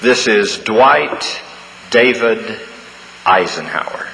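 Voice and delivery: slow, grave announcement of his name; lightly voiced general, each name set apart slowly; dignified general. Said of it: "this very dignified voice said".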